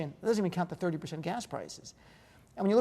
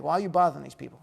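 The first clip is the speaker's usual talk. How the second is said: a light put-on New Jersey accent, lightly louder; 3 semitones lower, 4 dB louder, faster than usual. Host imitating Jersey locals for his guest, light Jersey accent. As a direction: toss it off in a mild North Jersey accent. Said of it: "That's my Jersey accent".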